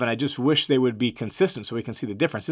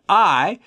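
"I" said louder and higher, then a pause; emphatic I; 4 semitones higher, 5 dB louder than usual. Shown as a demonstration. Teacher showing Paul's insistence, stressing "I". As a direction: punch the single word "I".

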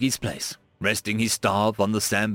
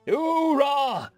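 hoorah shouted without enthusiasm; a dutiful, unenthusiastic troop reply; half-hearted hoorah. A narrator's reading. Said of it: "a bit lacking in enthusiasm".

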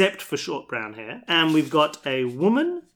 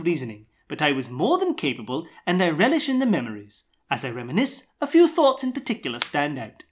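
put-on Australian accent; 2 semitones higher than usual. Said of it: "That's my Australian accent".

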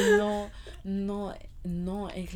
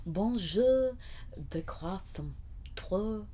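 fake foreign language; 2 semitones higher, 4 dB quieter, much slower than usual. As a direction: fake French gibberish. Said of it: "I just made a bunch of random noises".

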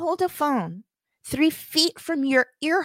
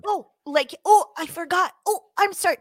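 higher fake-innocent apology; mock apology; 4 semitones higher than usual. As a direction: play dumb, sing-song sorry.

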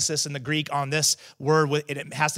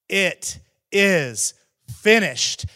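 rising victory shout, much louder on finished; loud cry; 6 semitones higher, 6 dB louder, much slower than usual. Acted. Jesus on the cross crying out his last words in a loud voice. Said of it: "crying out in a loud voice".

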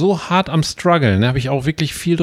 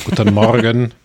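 put-on caricatured German accent; 5 dB louder than usual. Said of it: "so wie die Engländer sich oder die Amis sich vorstellen, wie man Deutsch spricht".

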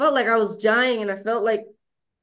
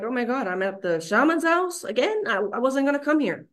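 higher, mock-dismayed realization; shocked disbelief; 5 semitones higher than usual. Arriving at the shaman's house again, higher dismayed surprise. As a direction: gasp it out like waking somewhere unexpected. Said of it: "then I'm like".

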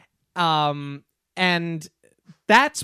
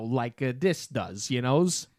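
low mock New York street talk; put-on New York dialect; thick New York accent; 4 semitones lower than usual. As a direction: imitate a New York tough, pitched down. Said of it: "New York accent".

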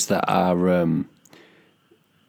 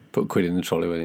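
Cockney accent; 2 semitones lower, much faster than usual. Shown as a demonstration. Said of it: "the Cockney accent".

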